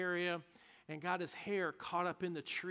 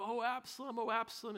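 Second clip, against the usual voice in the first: fading grief; 5 semitones higher than usual. Retold or imitated. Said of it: "he cried".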